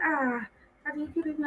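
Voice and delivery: softly imitated polite phone greeting; deferential greeting. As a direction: drop the volume to greet an honoured elder. Retells respectful greeting to the speaker.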